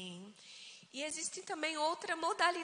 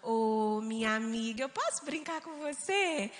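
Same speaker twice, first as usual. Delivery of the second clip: put-on sweet wheedling child's request; gentle, amiable coaxing; 2 semitones lower than usual. Older sister winning over little sister, gentle. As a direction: coax her gently, lilting up at the end. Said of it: "Ela vai mais mansa, mais amável e fala".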